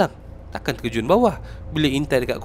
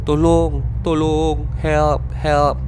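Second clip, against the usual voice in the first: mild retold shouting for help; 3 semitones higher, 4 dB louder, much slower than usual. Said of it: "jerit minta tolong".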